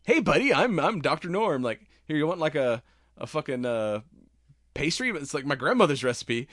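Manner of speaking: syrupy kindness hiding menace; creepily friendly Doctor Norm. Retold or imitated. Doctor Norm offering his captive a pastry, creepily sweet. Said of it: "so nice that it's fucking creepy".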